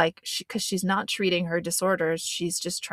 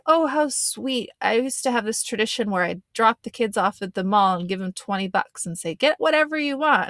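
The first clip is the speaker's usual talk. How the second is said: sappy dad impression; 3 semitones higher than usual. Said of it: "he makes it sound like".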